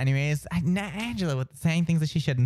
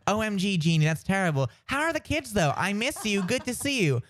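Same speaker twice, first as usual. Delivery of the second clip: gushing commenter; 4 semitones higher than usual. Retold or imitated. Gushing Facebook commenter acted out.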